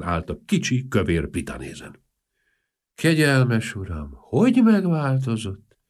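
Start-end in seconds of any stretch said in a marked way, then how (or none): 2.9-5.8 slow, mournful porter's wife; a touch of sorrow, slow; sad. Acted. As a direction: lament gently, slowly. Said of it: "mondta szomorúan".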